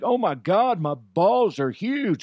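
slow, high, put-on cowboy drawl; comic cowboy bragging loudly; Cowboy DeHuff. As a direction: ham up the cowboy character. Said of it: "Cowboy DeHuff".

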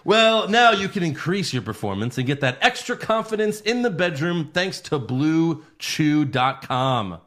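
lively pitch, slowing on the web address; ad read. Acted. Host pitches a sponsor to listeners, ad-read style. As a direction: sell it like a podcast sponsor spot.

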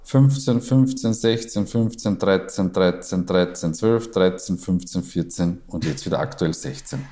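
clipped numbers rattled off one by one; staccato. Shown as a demonstration. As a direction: tick off each number in short bursts. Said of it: "ich mache das im Staccato".

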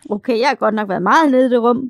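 loud, amused admission through laughter; laughing confession. Real, not acted. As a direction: confess it while starting to crack up. Laughing confession after the surprise.

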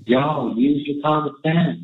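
put-on folksy Southern accent. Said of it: "all folksy and sweet and Southern".

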